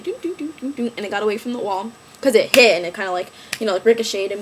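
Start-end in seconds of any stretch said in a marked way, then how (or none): 0.0-0.9 little doo-doo-doo of a cart; bouncy mimicked cart sound; imitated cart noise. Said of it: "my little cart was just, like".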